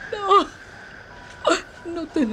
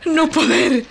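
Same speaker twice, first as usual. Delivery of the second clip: crying; 3 semitones higher than usual. Acted. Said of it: "Dos lágrimas se resbalan por sus mejillas".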